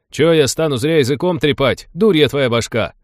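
annoyed rider growls back at his mate; mild snapping retort. Acted. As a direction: snap back at him, not fully angry. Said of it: "огрызнулся другой конник".

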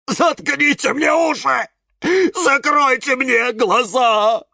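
high, wailing plea; Кирилл moaning. A narrator's reading. Cactus unable to watch the cooking show, moaning. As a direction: groan it out in horror. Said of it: "застонал Кирилл".

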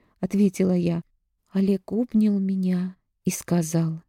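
usual speaking voice

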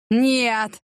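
a short, desperate howled refusal. Acted. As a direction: wail it like a cornered thug. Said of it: "взвыл бандит". (отчаянно взвыть «Нет!»)

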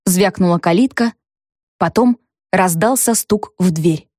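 ordinary delivery, nothing marked

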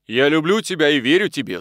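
a quick, impulsive rush of love; impulsive outburst. A narrator's reading. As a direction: blurt it out on impulse. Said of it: "сказал он порывисто". (порывисто, на порыве)

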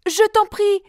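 put-on high young girl's plea; pleading princess. A narrator's reading. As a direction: beg him to win. Iseult pleading with Tristan.

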